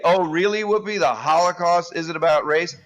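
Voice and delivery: sarcastic "oh, really?" retort; mock incredulous. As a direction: challenge it with exaggerated disbelief. Mock retort to Whoopi's remark.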